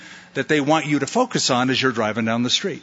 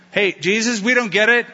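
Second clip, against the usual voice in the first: high, puzzled plea to Jesus; a confused follower asking for help; lightly voiced bewildered disciple; 6 semitones higher than usual.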